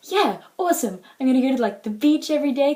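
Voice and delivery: lively mock self-quote, full of optimism; optimistic cheer. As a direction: play up your excitement. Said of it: "I'm an optimistic person".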